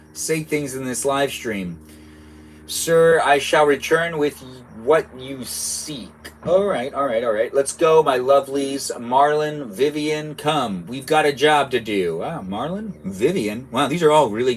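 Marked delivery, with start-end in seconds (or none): 2.6-6.1 a hint of a servile witch; lightly voiced loyal witch. Reads witch reply. 7.5-12.2 a hint of a bossy witch; lightly voiced witch rallying. Reads witch rallying sisters.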